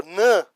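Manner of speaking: "nã" isolated as its own syllable; single out "nã" for the listener; syllable demonstration. Shown as a demonstration. Teacher points students to the last syllable, "nã" isolated. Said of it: "Ó, ó".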